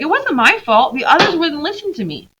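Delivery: mock the excuse a little, high; teacher imitating Lucy blaming the others; whiny kid. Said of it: "She's like".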